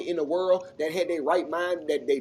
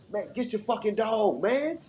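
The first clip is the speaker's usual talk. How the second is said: higher-pitched mock complaint from annoyed neighbors; lightly voiced irritated neighbor yelling about the dog; 5 semitones higher than usual. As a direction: whine it like a fed-up neighbor. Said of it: "Man, people".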